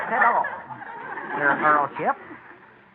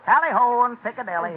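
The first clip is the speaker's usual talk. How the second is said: fake British; 4 semitones higher than usual. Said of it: "your man has a rather peculiar accent".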